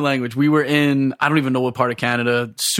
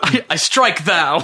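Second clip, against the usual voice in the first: mock biblical prophet; slower than usual. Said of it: "like, Shakespearean".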